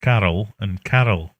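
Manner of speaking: "Carol and Carol" both said the same, crisply; over enunciating. Shown as a demonstration. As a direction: spell out "Carol and Carol" clearly. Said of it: "Enunciate, people".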